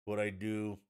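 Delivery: mock cooking-show host; affected recipe patter, showy "provolone"; imitating a celebrity TV cook. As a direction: linger on "provolone" with an exaggerated Italian ending. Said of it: "And she's like".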